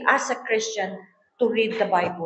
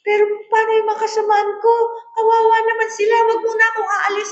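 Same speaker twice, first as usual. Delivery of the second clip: much higher, louder, fast pleading sing-song; pleading member; 10 semitones higher, 4 dB louder, faster than usual. Retold or imitated. Woman begs the pastora not to leave her, high pleading. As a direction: whine it out like a worried churchgoer. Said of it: "Pero sabi niya".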